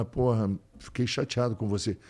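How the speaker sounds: bronca branda, em volume baixo; chateado de leve. Retold or imitated. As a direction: softly tell a dog you're let down. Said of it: "o teu tom varia, né?".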